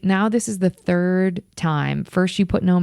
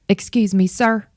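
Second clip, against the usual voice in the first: fed up; 4 semitones higher than usual. Retold or imitated. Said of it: "she had had it".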